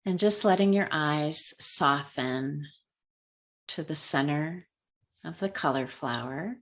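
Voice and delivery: unhurried guiding voice with long pauses; calm, measured meditation lead; guided meditation. Real, not acted. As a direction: ease them gently through a color meditation, leaving space between phrases. Leads a color meditation.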